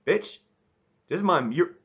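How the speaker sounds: high, loud mock outburst; hammed-up furious yell; mock angry snap. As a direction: yell it at the boss like he's robbing you. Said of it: "he's, he's like".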